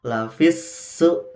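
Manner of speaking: Lafis su joined short, slow; correct recitation. Shown as a demonstration. Teacher reciting correctly, slow chant.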